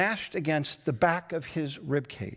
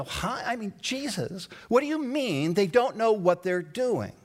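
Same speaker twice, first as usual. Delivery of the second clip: puzzled; 4 semitones higher than usual. Pretend. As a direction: ask it as if truly baffled. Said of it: "And I take that in and I stop and I go".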